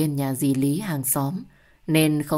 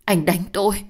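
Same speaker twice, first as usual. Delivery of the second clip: shocked shout; 3 semitones higher, 3 dB louder than usual. Acted. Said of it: "Tôi bừng mặt hét lớn".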